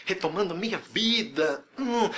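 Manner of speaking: hammed-up motivated exerciser; mock pumped-up enthusiasm. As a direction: playfully act all fired up. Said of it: "Você começa empolgadão".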